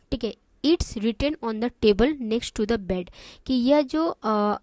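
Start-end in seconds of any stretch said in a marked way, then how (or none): 0.7-3.0 slow, even reading; slow and clear. Shown as a demonstration. Teacher reading the receptionist's answer slowly. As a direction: read it slowly for beginners. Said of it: "मैं इतना आराम आराम से इसलिए बोल रही हूँ".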